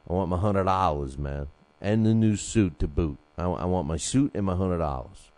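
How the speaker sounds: hammed-up boxer whining for his release money; Floyd demanding. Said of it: "I wonder if Floyd's like".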